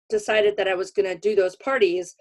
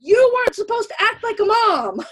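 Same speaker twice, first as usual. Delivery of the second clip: much higher, laughing comeback; laughing retort; 13 semitones higher, 4 dB louder than usual. Retold or imitated. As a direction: toss it back through a laugh. Retort to mom while laughing.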